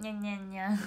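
breathy, voiceless nyan-nyan-nyan; whispered cat sneezes. Retold or imitated. Idol whispers a friend's run of kitten sneezes. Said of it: "みたいな".

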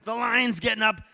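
excited storytelling. A narrator's reading. Preacher narrates the lion getting mad, excited. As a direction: build alarm as the beast stirs.

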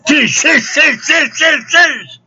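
very high, loud repeated crashes; mock smashing noises. Pretending to smash with the bottle, high loud crash noises. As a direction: fire off shrieked smash sounds in a rapid row. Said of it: "taking this bottle and just".

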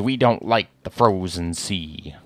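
slow pirate captain drawl; lightly voiced slow pirate. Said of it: "will you keep doing your pirate voice?".

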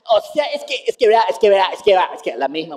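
stumbling round the same fillers; mock stammering. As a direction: imitate someone stuck for an answer. Mimics officials' evasive stammer again.

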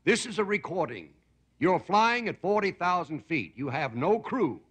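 slow, even recorded-message voice; lightly voiced automated announcement. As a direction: read it like a robotic airline recording. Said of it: "it says, uh, a voice comes on".

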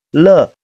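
"了" as a demonstrated "luh"; weak schwa syllable. Shown as a demonstration. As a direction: sound out "了" with a schwa. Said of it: "都是要变成呃音的".

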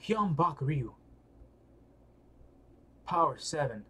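ordinary talk, nothing marked

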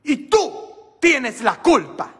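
put-on high, slow American-accented Spanish of the nun; the American nun in her broken Spanish, high and laughing; nun's American accent.

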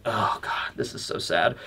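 low, hushed, grim murmur; Batman voice. Retold or imitated. Dragon reacting to Kuma, low Batman voice. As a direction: sigh it out low and dark. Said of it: "Batman voice here".

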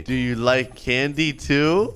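slow, lightly put-on creepy offer; creepy stranger. Stranger approaching a second kid, slow and creepy. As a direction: draw out the question to lure. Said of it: "I'm creepy".

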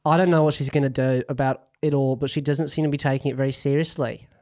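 lightly put-on, jokey Australian accent. Host reads listener Lara's question aloud, in a mock Australian accent. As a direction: read it like a bad Aussie impression. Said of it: "I'm gonna read it in my Australian accent".

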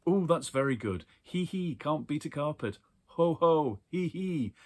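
high, loud giggling hee hees; roaring with laughter. A narrator's reading. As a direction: lose it completely over the pun.

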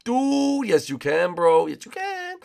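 high-pitched mock rival voice; rival racer retort. Rival insists to the leader, high put-on insistence.

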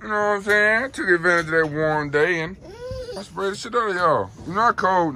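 high, loud pet voice. Real, not acted. Owner teasing the wet dogs, high loud baby talk.

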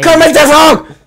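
very high, loud squeal; screeching put-on voice. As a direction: shriek it in a silly voice.

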